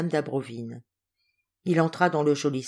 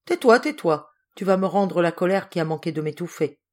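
agacé; 4 dB louder than usual. Acted. Général encore étouffé de colère.

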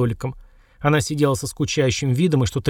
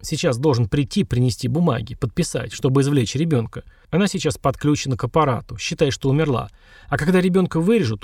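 fighting back sobs. Acted. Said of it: "хрипло, превозмогая рыдание".

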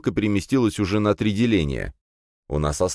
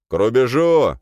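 commanding shout; 7 semitones higher, 6 dB louder than usual. A narrator's reading. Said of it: "велел нам Удавкин".

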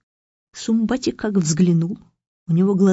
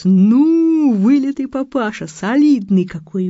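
louder, hammed-up gushing midwives; mock bass shout; 4 semitones higher, 6 dB louder than usual. Midwives flatter the new father in a mock chorus. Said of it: "басом закричал".

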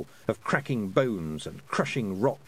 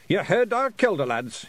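high, loud Scottish command; shouted rally; 8 semitones higher, 5 dB louder than usual. A narrator's reading. Pixie leader rallying his clan, shouting. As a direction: shout to rouse the lads. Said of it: "he shouted".

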